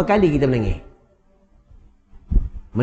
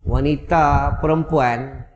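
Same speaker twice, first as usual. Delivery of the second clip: ordinary talk, nothing marked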